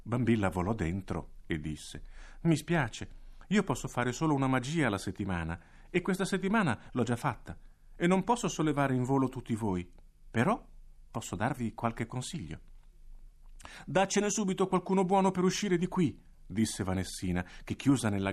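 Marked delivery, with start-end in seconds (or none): 2.4-12.6 un po' più acuta, dispiaciuta; si scusa con gentilezza; leggera voce da folletto. Acted. Bambilla spiega ai bambini. 13.9-16.2 acuta e forte, insistente; bambina impaziente. Acted. Vanessina esige aiuto.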